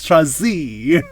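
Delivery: drawn-out mock-fancy British name; fancy British accent, relishing the last syllable. Host imagines co-host's display name, fancy accent. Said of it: "with that accent".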